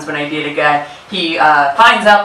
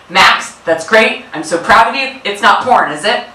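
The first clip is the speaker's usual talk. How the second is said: proud dad; 4 semitones higher than usual. Retold or imitated. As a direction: draw it out like a beaming dad with a sly doubt. Dad voiced in the story.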